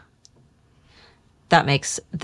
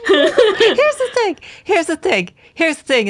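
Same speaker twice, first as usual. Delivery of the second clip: laughing emphasis; 10 semitones higher than usual. Real, not acted. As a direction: laugh through it, stretching each word. Repeated, laughing emphatic lead-in.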